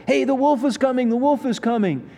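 high, far-off mock cry of a boy calling for help; hammed-up kid shouting a false alarm; boy crying wolf. Preacher voicing the boy crying wolf to villagers.

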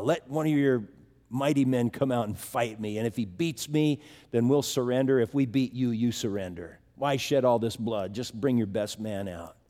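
a lightly voiced giant calling across the valley; giant's taunt.

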